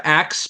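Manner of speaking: axe, deliberately swapping the sounds of "ask"; joking "axe" for ask. Pretend. Co-host kidding about regional speech, deliberate axe for ask. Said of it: "I just wanted to say axe".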